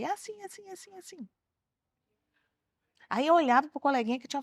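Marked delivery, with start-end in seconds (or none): 0.0-1.3 put-on high, soft kid's report, fading out; soft, high-pitched mock tattling; imitated complaining child. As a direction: mimic a child telling on a classmate. Imitates child reporting classmate's words.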